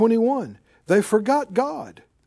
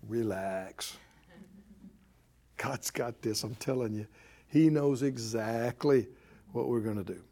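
much lower, softer, soothing calm; calm Faith voice; 10 semitones lower, 8 dB quieter than usual. Acted. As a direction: speak as unshakable Faith, gently. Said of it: "Faith goes".

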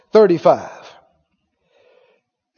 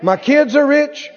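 higher-pitched, punchy rallying list; preaching confession; 5 semitones higher than usual. Shown as a demonstration. Preacher showing congregation what to say, declaring. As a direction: chant each claim like a rousing declaration. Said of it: "You need to say".

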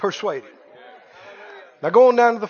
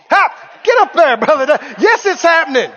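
excited poke; 3 semitones higher than usual. Retold or imitated. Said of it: "poke him".

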